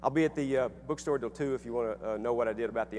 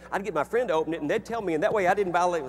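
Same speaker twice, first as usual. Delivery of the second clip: laughing mock quote; 7 semitones higher, 8 dB louder than usual. Quoting people's schemes, laughing.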